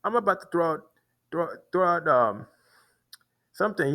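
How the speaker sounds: high-pitched imitation of the angry man; imitating the man. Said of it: "that's how he talks".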